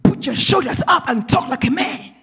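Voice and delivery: reenacted scolding at moderate volume; retold yell back. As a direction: act out a stern parental order. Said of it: "I yell back".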